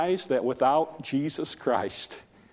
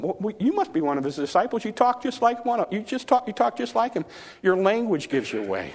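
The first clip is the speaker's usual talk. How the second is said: much higher, needling accuser's voice; accusing bystander; 10 semitones higher than usual. Acted. Bystander by the fire accusing Peter, high and needling. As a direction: pin him down, sure of yourself.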